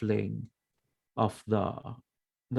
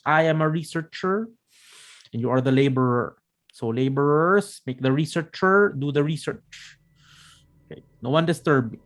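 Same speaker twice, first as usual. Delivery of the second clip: crazy researcher voice; 3 semitones higher than usual. Acted. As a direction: bark orders like a mad scientist. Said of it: "a bit crazy vibes".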